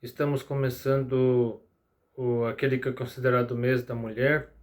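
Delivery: sleepy voice, barely awake. Real, not acted. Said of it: "é que eu tô morrendo de sono".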